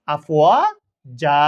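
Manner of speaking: আফ ওয়া জা with the final a stretched one alif; pausal stop with long a. Shown as a demonstration. Teacher shows the waqf on আফওয়াজা. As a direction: hold the last a of জা briefly. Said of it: "এভাবে পড়তে হবে".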